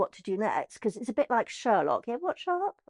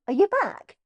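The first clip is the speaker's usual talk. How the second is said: caller voice; 9 semitones higher, 4 dB louder than usual. Retold or imitated. John on the phone, acted.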